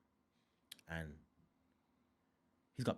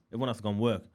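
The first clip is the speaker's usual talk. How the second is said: normal talking voice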